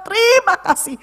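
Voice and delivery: high-pitched grateful exclamation; retold crying out. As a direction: call out thanks as if exclaiming. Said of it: "oh saya berseru, saya bilang".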